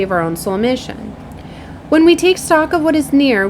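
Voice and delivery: measured read-aloud of a spiritual message. Real, not acted. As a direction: deliver it as a recited oracle message. Reads channelled card message.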